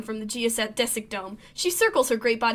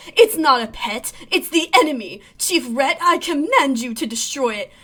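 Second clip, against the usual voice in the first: angry command; 5 dB louder than usual. Acted. Lum demands the monster's death.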